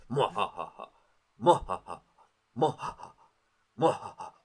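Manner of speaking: choppy mock evil laugh, restarting; a villain laugh that keeps restarting; stop-start villain laugh. Shown as a demonstration. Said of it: "stops and then starts over again".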